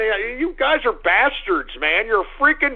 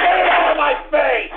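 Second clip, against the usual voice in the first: angry shout; 4 semitones higher than usual. Real, not acted. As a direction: yell it, fed up. Angry at mic.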